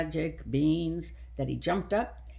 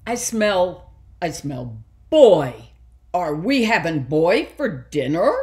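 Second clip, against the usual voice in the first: giant voice; 9 dB louder than usual. A narrator's reading. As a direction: boom it like a hungry giant. Three-eyed giant sniffing.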